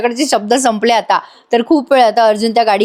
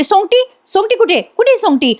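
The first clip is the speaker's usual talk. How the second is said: unhinged woman; 10 semitones higher than usual. Retold or imitated. Retold unhinged villain talking to constable.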